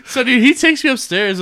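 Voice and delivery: talked through real laughter; can't stop laughing while telling it; high laughing telling. Real, not acted.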